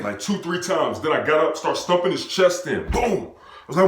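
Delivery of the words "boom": high exclaimed boom; sudden high impact sound; stomp noise. Retold or imitated. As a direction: imitate a stomp landing. Imitating stomp on chest.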